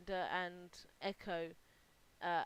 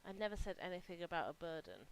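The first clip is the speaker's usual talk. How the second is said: a soft, mildly whispered correction; lightly whispered back, serious; serious girl whispering back, barely hushed; whispered retort; 3 semitones lower, 7 dB quieter than usual. Acted. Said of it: "the serious girl whispers back at you".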